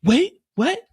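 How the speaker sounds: high loud shocked squeal; startled high yelp. Retold or imitated. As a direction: jolt up in alarm. Mireya shocked.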